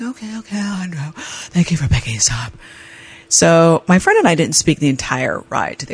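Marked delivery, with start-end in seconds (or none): 0.0-2.5 meek thanks. Retold or imitated. Sheepish reply to driver.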